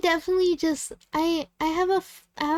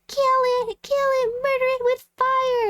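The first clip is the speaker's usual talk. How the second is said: high, loud panicked shriek of kill it; mock screaming; 10 semitones higher, 4 dB louder than usual. Friends shrieking at a spider, mock panicked high yell. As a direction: shriek it like a scared friend who just saw a spider. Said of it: "like, screaming".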